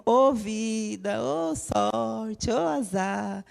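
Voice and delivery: lightly voiced mopey cartoon lament; gloomy cartoon hyena. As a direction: drag each "ô" like the sad cartoon hyena. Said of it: "Aquele famoso desenho".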